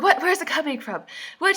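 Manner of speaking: high-pitched bewildered questioning; mock freak-out. Heroine reacting to his warning, mock freaking out. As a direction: act out her baffled panic. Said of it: "She's freaking out".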